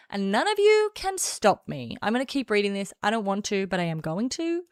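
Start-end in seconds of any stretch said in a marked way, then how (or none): 0.1-2.0 megalomaniac rant. Pretend. Defiant villain boast.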